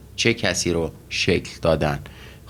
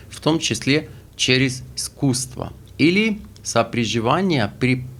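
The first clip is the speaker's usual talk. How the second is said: reads the Russian definition slowly; slow, careful dictation pace; slow reading; slower than usual. Shown as a demonstration. (خواندن آهسته و شمرده به روسی)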